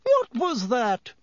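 high, slow alarmed question; startled nurse asking what that noise was. A narrator's reading. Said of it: "said Madame Pomfrey in alarm".

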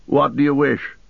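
high-pitched questioning servant; unseen figure's voice. A narrator's reading. Unseen servant asks visitors their business, high-pitched voice. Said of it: "said a voice".

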